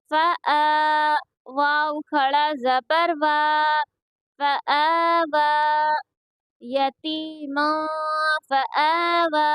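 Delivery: slow, level-pitched syllable chant; measured qaida recitation for learners to copy; Quranic spelling drill. Shown as a demonstration. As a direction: spell out each syllable with drawn-out vowels.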